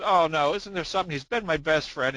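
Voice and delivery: a hint of mock dismay; pleading pet owner. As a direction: plead a little, as in telling a joke. Joke's owner pleads over dead parakeet.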